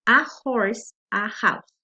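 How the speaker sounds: "horse" and "house" with audible H; H pronounced. Shown as a demonstration. Teacher giving consonant-sound examples, H audible in "horse" and "house". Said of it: "la H sí se pronuncia".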